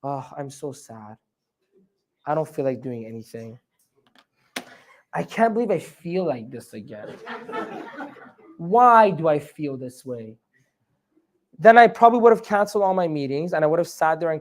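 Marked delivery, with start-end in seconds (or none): 0.0-10.4 droopy wallowing voice, dragging every word; self-pitying moan. Retold or imitated. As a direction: sigh it out like you're giving up on the day. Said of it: "what if I had said something else to myself".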